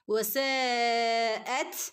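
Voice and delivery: വസാഅത് ending in a puff of air; breathy ta. Shown as a demonstration. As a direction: let the final ത് escape as air. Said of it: "കാറ്റ് പോകുന്ന രൂപത്തിൽ". (കാറ്റോടെ ത്)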